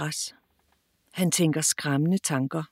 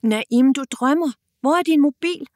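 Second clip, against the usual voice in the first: higher, louder call to wake her brother; loud shout; 6 semitones higher, 4 dB louder than usual. Acted. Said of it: "råber Nadia meget, meget højt". (højt råb for at vække ham)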